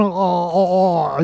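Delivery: exaggerated British "oh" sounds; mock British accent. Shown as a demonstration. Showing a co-host how they talk, mock British. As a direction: demonstrate the British vowels, hammed-up. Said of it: "you have to go like that".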